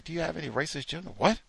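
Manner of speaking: high, mock flustered denial trailing to mumbles; mock innocent denial. Coworker asked about racist jokes, mocked in a high flustered denial. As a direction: play dumb, protesting too much.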